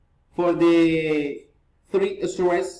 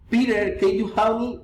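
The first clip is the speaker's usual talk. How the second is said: higher-pitched call on "Peter"; raised tune on the name "Peter", then the question; rising address intonation; 4 semitones higher than usual. Shown as a demonstration. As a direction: lift "Peter" as a form of address.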